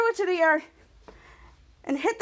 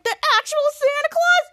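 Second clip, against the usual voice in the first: much higher, loud astonished question; high wide-eyed disbelief; amazed; 13 semitones higher, 4 dB louder than usual. Acted. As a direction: gasp out the question in awe. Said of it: "he's like".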